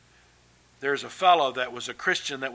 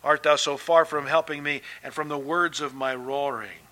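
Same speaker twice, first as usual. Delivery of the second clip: mildly imitated cry of anguish. Preacher voicing Jesus on the cross in pain, mildly crying out. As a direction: quote it as a restrained outcry. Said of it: "and he cried out".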